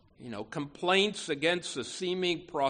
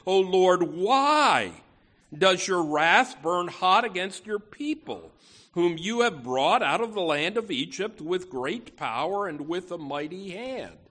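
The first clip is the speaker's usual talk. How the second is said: crying out; 5 dB louder than usual. Acted. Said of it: "you hear Moses cry".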